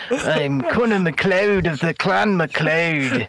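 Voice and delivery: slow, lightly put-on Scottish accent; attempted Scottish accent. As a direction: have a go at a Scottish accent, slowly. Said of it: "I'm trying to do a Scottish accent".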